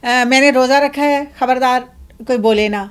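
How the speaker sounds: hammed-up irritable fasting man; mock fasting bully. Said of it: "ہمارے جو عمومی رویے ہوتے ہیں".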